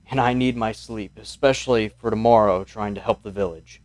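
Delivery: a lightly voiced weary old mayor; mild, unhurried old man asking for sleep; tired old mayor. Old mayor tells soldiers he needs his sleep, lightly voiced.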